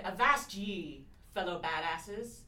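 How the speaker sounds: dramatic pirate reading. Shown as a demonstration. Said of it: "Can I hear the quote again".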